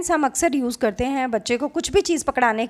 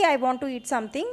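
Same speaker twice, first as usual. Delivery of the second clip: slow demo; 4 dB quieter, much slower than usual. Shown as a demonstration. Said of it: "मतलब इशारा करते हुए कि".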